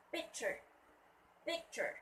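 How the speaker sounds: "picture" as PIC-ture, pitch dropping after PIC; stress on first syllable. Shown as a demonstration. Teacher modelling the next word, "picture" stressed on PIC. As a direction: hit the start of "picture". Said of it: "First syllable".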